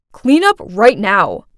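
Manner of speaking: slow, grunted command; gruff order. A narrator's reading. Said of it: "grunted out before leaving".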